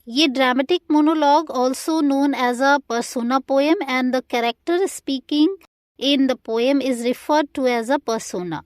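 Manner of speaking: reading a definition out slowly for notes; slow, careful classroom dictation. Shown as a demonstration. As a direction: spell it out slowly for students to copy.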